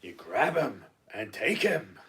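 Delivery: slow, emphatic film line; film warrior quote. Acted. Advising on attracting a Scottish lad, mock warrior instruction. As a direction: say it as a slow, punchy command. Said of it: "It's from Conan the Destroyer".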